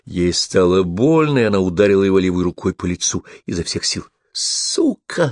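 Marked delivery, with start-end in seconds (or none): 4.3-5.3 shrieked high, an insult flung mid-fight; yelling. A narrator's reading. Attacker screaming at the woman he is beating, shrieked insult. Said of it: "завопил Карлос".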